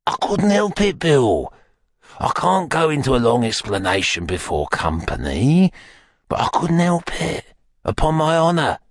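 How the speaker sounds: put-on high, wheedling old fence making excuses; Fagin, pleading. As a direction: protest innocence in a high, placating whine.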